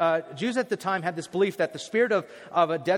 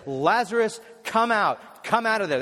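a mild raised call to the tomb; loud call; 4 semitones higher, 4 dB louder than usual. Acted. Pastor voices Jesus calling Lazarus, mild raised call. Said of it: "Jesus says in a loud voice".

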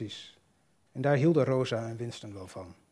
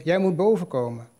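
mock catcall; 4 semitones higher, 6 dB louder than usual. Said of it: "had hij geroepen".

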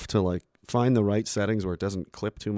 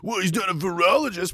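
mocking high voice; 9 semitones higher, 4 dB louder than usual. Mocking critic voice.

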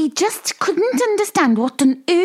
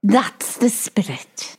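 whispered encouragement; 7 semitones lower, slower than usual. Real, not acted.

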